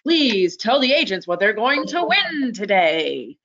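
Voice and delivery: lightly put-on radio announcer, swooping intonation; a playful touch of radio host. Host cues co-presenter to reveal the prize, light radio voice. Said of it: "use my radio voice here".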